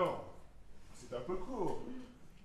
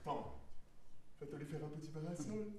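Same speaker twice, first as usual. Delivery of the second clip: considerate; 3 dB quieter than usual. Acted. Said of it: "Prévenant".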